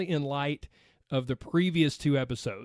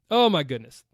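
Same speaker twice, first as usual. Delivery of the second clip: touched exclamation; 7 dB louder than usual. Real, not acted. Reacting to touching listener post.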